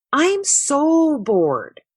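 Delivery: slow, drawn-out bored grumble; grumbled. Acted. Kenny to friends in the tree house, bored grumble. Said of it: "grumbled Kenny".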